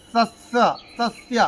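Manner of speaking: সস্য with both স made at the teeth; tongue to the teeth for each স in সস্য; dental স. Shown as a demonstration. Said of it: "জিভটাকে দাঁতে ডেকে". (সস্য-র স দাঁতে জিভ ঠেকিয়ে)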